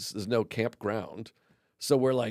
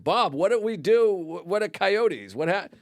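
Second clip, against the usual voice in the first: panicked question; 6 semitones higher than usual. Retold or imitated. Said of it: "I'm like".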